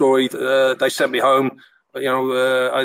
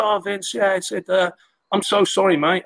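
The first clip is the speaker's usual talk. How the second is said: apologetic mock-Scouse, pitched up; higher-voiced Scouse imitation; Tony Warner, rough Scouse; 6 semitones higher than usual. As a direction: apologise in an amateur Scouse accent. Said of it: "This Scouse accent. I'm not good with Scouse accents".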